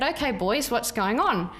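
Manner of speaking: lightly put-on broad Ocker accent; a touch of matey Australian Ocker. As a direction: play up the Aussie Ocker a little. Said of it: "in my best Australian Ocker accent".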